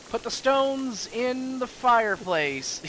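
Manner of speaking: high, slow granny instructions; dying old grandma. Acted. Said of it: "she's like".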